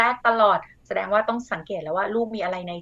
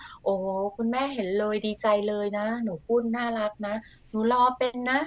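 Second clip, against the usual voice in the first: put-on praising a child; 4 dB quieter than usual. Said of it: "ให้ความชื่นชม".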